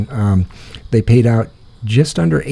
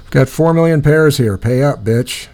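cocky demand; 4 semitones higher, 4 dB louder than usual. Pretend. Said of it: "walk in and go".

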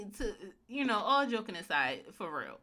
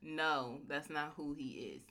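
whispering; 6 semitones lower, 9 dB quieter than usual. Real, not acted. Whispered disagreement.

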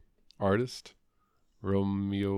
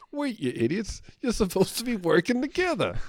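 mock scolding; 13 semitones higher, 4 dB louder than usual. Hosts retell characters scolding them.

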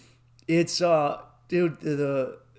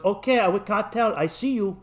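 fed-up dealer; 5 semitones higher, 3 dB louder than usual. Retold or imitated. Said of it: "he got fed up".

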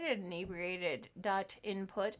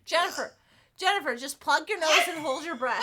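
laughing; 4 semitones higher, 6 dB louder than usual. Real, not acted. Advising through laughter.

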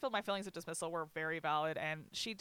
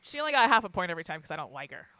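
fast and louder, laughing through it; 9 semitones higher, 8 dB louder, faster than usual. Real, not acted. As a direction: rush the punchline and crack up. Joking about her laugh list.

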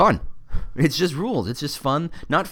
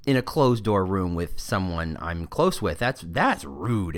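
slow, deliberate mock shock; appalled; slower than usual. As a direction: draw it out as if appalled. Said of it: "I'm just appalled".

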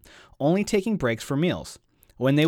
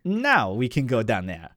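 put-on Oliver's French accent; 3 semitones lower than usual. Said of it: "you do these voices for Oliver".

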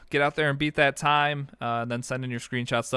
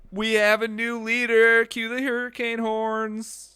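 hype announcer; 11 semitones higher, 3 dB louder, slower than usual. Acted. Hyping a new leader.

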